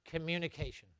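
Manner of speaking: dictated word. Shown as a demonstration. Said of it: "Write this down".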